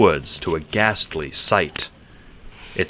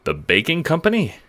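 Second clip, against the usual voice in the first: higher, disbelieving question; incredulous; 10 semitones higher than usual. A narrator's reading. Johnny doubting Roxanne's story, incredulous. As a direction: ask it like you can't believe it. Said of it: "you say incredulously".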